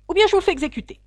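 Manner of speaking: high, loud royal threat; an angry ultimatum from the throne; threatening king. A narrator's reading. The king threatens the forgetful hatter with execution, angrily.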